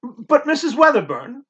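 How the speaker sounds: a whispered, anxious protest; boy protesting to the housekeeper in a whisper. A narrator's reading. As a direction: protest under the breath. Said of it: "I protested".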